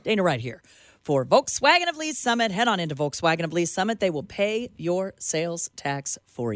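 peppy dealership ad read; radio ad read. Acted. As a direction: pitch the car dealer to the ladies listening. Live read for a car dealer.

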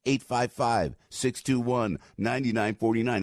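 hard-sell Jersey guy pitch; Jersey accent. Pretend. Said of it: "That's my Jersey accent".

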